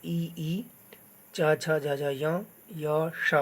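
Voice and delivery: "ई, च, छ, ज, झ" made at the palate; palatal sounds. Shown as a demonstration. Teacher showing learners which letters are said from the palate, palatal sounds. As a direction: recite "च, छ, ज, झ" evenly as palate letters. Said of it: "तालु से उच्चारण होता है".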